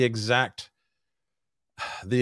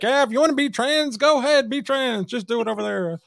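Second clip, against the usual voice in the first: much higher, mocking tone imitating his co-host; sarcastic sing-song impersonation; mocking impression; 12 semitones higher than usual. The speaker mocks John's stance in a high mock voice. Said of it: "you're like".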